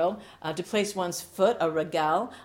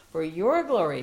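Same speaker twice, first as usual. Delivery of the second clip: louder cry of praise; calling out; 5 dB louder than usual. Acted. Pastor praying aloud, rising and louder. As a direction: press the words out to God.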